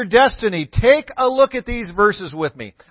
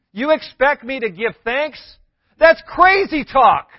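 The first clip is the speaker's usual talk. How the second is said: raised, heated protest of a hurting father; a bitter father's outraged retort; indignant objection; 4 semitones higher, 3 dB louder than usual. Acted. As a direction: push back hard, stung and incredulous. Pastor voices grieving father's objection.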